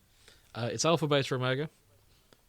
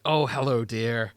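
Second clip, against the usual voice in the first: lightly voiced sweet old nan greeting; a hint of a kindly granny saying hello; old lady voice; 5 dB louder than usual. Friend imitating the companion Lily, lightly done old lady. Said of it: "She just talks like an old lady".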